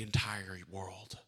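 slow hushed whisper. Acted. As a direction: let it fall to a whisper.

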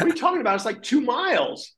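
mock incredulous local. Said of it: "they're like".

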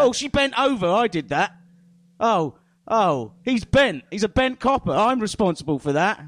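a smug showman claiming every bend as his own; mock Uri Geller. Podcast host mocks Uri Geller for co-hosts, loud smug parody.

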